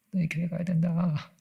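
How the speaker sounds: high, slow, put-on spirit voice through a shaman; a shaman mimicking a dead mother, telling them to go to church; mock spirit voice. Preacher mocks a possessed shaman to the congregation, high slow put-on voice. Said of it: "교회 가라는 말을 절대 안 하".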